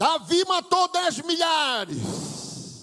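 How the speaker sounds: slow, loud, shouted in chorus.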